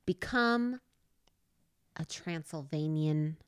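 lightly voiced coach fading into a hush; a hint of a coach fading into a hush; mock dialect coach. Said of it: "your dialect coach is like".

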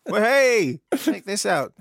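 high, loud cheeky dog voice; be the sly little dog, up high. Pretend. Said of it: "you were doing the dog voice".

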